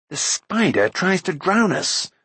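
high-pitched, slow cry of warning; narrator's contained shout, high and urgent; shouted alarm. A narrator's reading. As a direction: call out the danger, pitched well up. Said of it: "he shouted".

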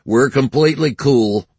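eager placating; smooth things over fast; conciliatory. A narrator's reading. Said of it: "suddenly conciliatory".

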